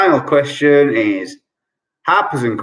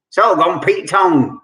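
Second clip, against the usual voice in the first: Cockney accent; 4 semitones higher than usual. Shown as a demonstration. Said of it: "I will try and do a Cockney accent".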